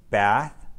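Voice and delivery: "Bath" ending on a clear th with the tongue between the teeth; "Bath" with the final th held and blown out; exaggerated th practice. Shown as a demonstration. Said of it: "more minimal pairs to practice the T H sound".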